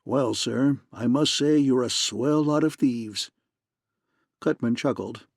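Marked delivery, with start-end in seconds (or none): 0.0-3.3 a hint of mock throaty purr; mimicking purr. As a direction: mockingly purr well, sir. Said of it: "mimicking the fat man's throaty purr".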